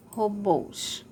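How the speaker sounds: "Robôs" with a closed final ô; "Robôs" falling on a long, tight ô; closed vowel. Shown as a demonstration. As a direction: stretch the closed BÔS of "Robôs". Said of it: "o som é fechado".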